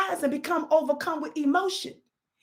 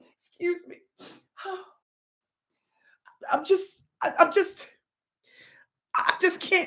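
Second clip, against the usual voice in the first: hushed, whispered, put-on fake crying and sobbing; 4 dB quieter than usual. Coaching someone on what to do next, the speaker demonstrates fake crying. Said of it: "start screaming and crying".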